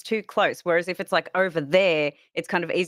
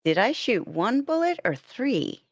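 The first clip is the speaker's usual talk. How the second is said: put-on American accent; 5 semitones higher than usual. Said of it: "read Twitch chat in accent".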